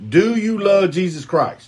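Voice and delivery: slow mock Spanish. Shown as a demonstration. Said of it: "Let me say it in Spanish for you one time".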